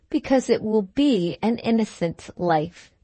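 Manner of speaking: a certain pointed weight on "innocent"; stress on "innocent". A narrator's reading. Bride answering her friend, with emphasis on "innocent". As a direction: lean on "innocent", the last word but one. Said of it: "laid a certain emphasis on the last word but one".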